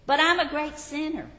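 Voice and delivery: a hint of an anxious sinner; pleading sinner. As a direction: plead your unworthiness up high. Sinner's objection voiced in Bunyan quote.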